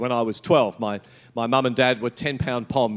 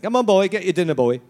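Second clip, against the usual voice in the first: higher-pitched Cockney imitation; London accent; 4 semitones higher, 3 dB louder, faster than usual. Little nana calling the boy to dinner, London accent. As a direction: call out like a Cockney granny. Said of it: "with this beautiful London accent".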